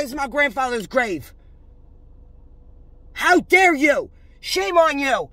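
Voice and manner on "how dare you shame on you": scolding. Acted. Scolding imagined church people, louder.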